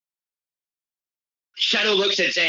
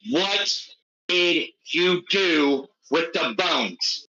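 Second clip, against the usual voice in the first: slow, flat, cold interrogation; deadpan menace, drawn out slowly; deep point blank voice; much slower than usual. Acted. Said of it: "the deepest, most just point blank voice that Shadow has".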